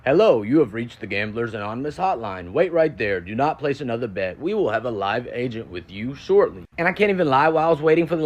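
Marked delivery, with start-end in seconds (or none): 0.1-6.6 smooth recorded-message voice, slow at the end; lightly imitated hotline recording; automated hotline voice. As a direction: read it like a phone menu recording. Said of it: "I hear an automated voice go".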